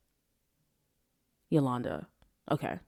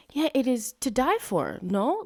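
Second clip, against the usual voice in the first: lightly mocked Italian accent, raised pitch; affected faux-Italian tag question; Bella Hadid; 7 semitones higher than usual. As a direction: put on a hint of fake Italian. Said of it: "pretending like she's, like, Italian".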